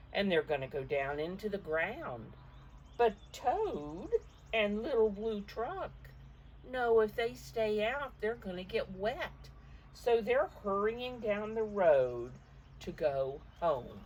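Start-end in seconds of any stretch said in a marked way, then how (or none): 3.0-14.0 higher, louder, eager; excited storytelling. A narrator's reading. Grandmother telling children the friends must hurry, higher and louder. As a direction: build the hurry for the kids.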